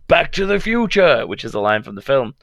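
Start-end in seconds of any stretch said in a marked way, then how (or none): 0.1-1.2 quoting the Doc. Retold or imitated. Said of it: "And then the Doc says".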